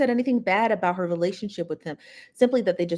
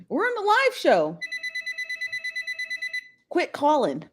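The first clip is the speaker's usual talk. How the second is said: irritated. Real, not acted. Phone keeps ringing.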